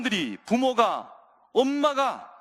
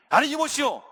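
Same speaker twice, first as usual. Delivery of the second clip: higher-pitched, irritated shooing-away; worked-up, dismissive refusal; angry disciples; 4 semitones higher than usual. Acted. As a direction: act out disciples angrily turning the crowd back. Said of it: "화를 내는 거예요".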